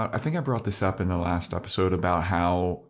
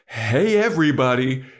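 louder call to the whole party; calling out to a room; 3 semitones higher, 5 dB louder than usual. Retold or imitated. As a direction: call out to get everyone's attention.

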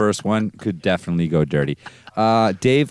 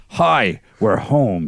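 father voice; 3 semitones higher, 4 dB louder, slower than usual. Acted. Father's line in spooky story.

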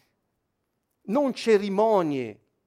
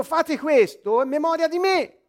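Gesù che proclama; 8 semitones higher, 4 dB louder than usual. Acted. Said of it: "Un'altra volta ha detto".

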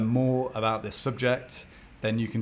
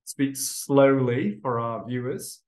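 slow; 3 dB louder, slower than usual. Shown as a demonstration. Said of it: "So I'm gonna remind him".

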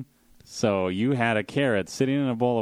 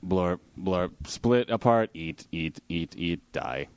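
gloopy bubbling slime voice; slower than usual. Pretend. Voicing single-celled organisms.

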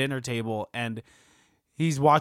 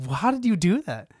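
imitating an incredulous, mad demand; mock-indignant question, pitched higher; retold indignant question; 5 semitones higher than usual. Co-host retells an actor demanding an explanation, mildly indignant. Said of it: "He's, like, honestly mad".

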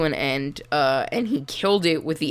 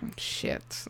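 whispered oh shit; 13 dB quieter than usual. Real, not acted. Realizes trap.

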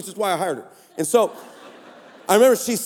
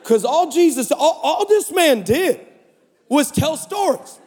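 laughing, slow, higher; 5 semitones higher, slower than usual. Real, not acted. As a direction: chuckle the words out slowly. Laughing through sermon point.

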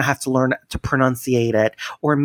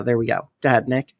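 usual speaking voice

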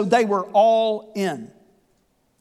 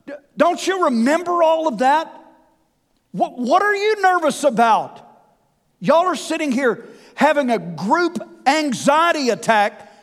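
exasperated scolding, higher throughout; an imagined fed-up Jesus chiding his friends; perturbed; 4 semitones higher than usual. Pretend. Imagined Jesus scolding nervous disciples, exasperated and higher. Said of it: "to be is perturbed at them".

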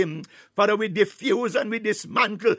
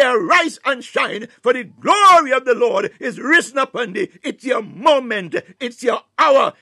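fervent proclamation; 5 dB louder than usual. Real, not acted. Climactic decree in fervent prayer.

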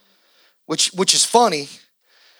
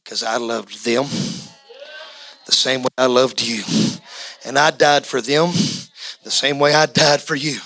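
lower, tender voice of God on the throne; voicing God; 5 semitones lower than usual. God on the throne answering the righteous, low and gentle. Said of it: "the one that sits on the throne is gonna go".

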